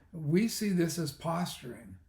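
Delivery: lightly mocking prissy official tone; a hint of a pencil-neck bureaucrat. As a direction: parody a stiff press spokesman. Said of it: "who talks like this?".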